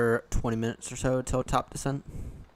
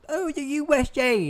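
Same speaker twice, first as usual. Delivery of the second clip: high, loud mock American "Oh, the U S A"; hammed-up American cheer on "U S A"; mock American accent; 8 dB louder than usual. Streamer mocking how Americans are taught the USA, in a put-on American accent. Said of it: "I can't even do an American accent anymore".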